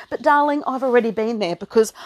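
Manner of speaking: puffing and panting; out of breath. Real, not acted. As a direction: talk while catching breath. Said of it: "hear me puffing and panting".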